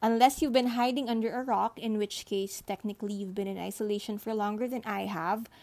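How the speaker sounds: muffled under a blanket; recorded under a thick blanket. Real, not acted. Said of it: "I am recording this under a blanket".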